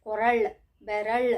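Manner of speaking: ಕೊರಳ್, ಬೆರಳ್ with the final ಳ್ clearly sounded; pronunciation practice words. Shown as a demonstration. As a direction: model ಕೊರಳ್, ಬೆರಳ್ one at a time, landing on the final L. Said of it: "you have to practice this words".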